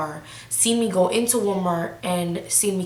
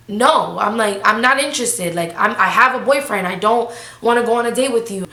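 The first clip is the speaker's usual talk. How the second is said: louder, insistent turn-down; retold firm refusal; 4 dB louder than usual. Telling the man she has a boyfriend, firm. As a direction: shut him down emphatically.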